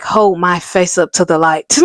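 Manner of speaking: lightly put-on British accent. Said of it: "British accents".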